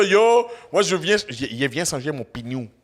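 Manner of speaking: lightly imitated Salvadoran French; Salvadoran accent. Co-host quoting Salvadorans changing a tire, Salvadoran accent. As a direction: mimic a Salvadoran saying pneu as pi-nou. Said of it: "les Salvatoriens vont dire, Salvadoriens vont dire".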